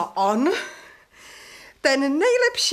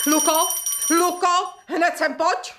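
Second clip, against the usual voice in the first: calling out; 5 semitones higher than usual. Acted. Calling the servant from afar.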